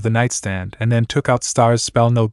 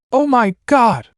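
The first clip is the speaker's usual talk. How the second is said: high shocked cry; 12 semitones higher, slower than usual. Acted. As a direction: gasp it out in shock. Star sees injured boyfriend.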